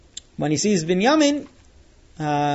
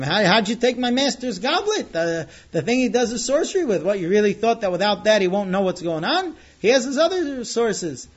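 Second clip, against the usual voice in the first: retold yelling; 4 semitones higher than usual. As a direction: scold the brothers in a raised voice. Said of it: "he starts yelling at them".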